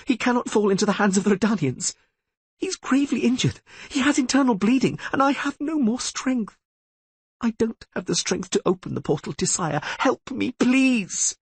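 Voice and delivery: high, breaking plea near tears; pleading Triss. Acted. Triss begging Tissaia for help, high and tearful. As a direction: beg with nothing left.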